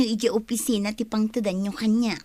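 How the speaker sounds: whispered secret scheme; conspiratorial whisper. Acted. Schemer whispering to the boss about the insurance plan. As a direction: hush it, nobody must overhear.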